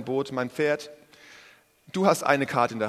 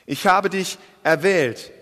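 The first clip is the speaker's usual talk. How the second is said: higher, louder and slow, pressing on habe; God's voice; 4 semitones higher, 5 dB louder, slower than usual. Acted. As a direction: proclaim it as God's own words. Preacher repeats God's words. (Gottes Stimme, langsam und laut verkündet)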